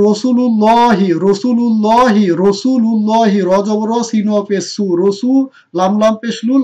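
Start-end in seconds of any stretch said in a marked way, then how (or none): 0.1-3.4 রসুলুল্লাহি recited with a full heavy লাম; recited model word. Shown as a demonstration. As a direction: chant the word for students to repeat. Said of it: "তারপরে কি আছে দেখুন". (আদর্শ উচ্চারণে পাঠ)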